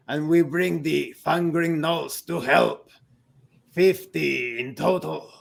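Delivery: slow battle-hungry orc, starting with a shout; a lightly voiced orc eager to kill his foes; orc ally. Orc ally tells the party his war plan, slow and fierce.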